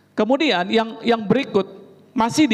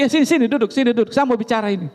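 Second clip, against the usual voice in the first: curt order; 3 semitones higher, faster than usual. Retold or imitated. Angry host ordering her.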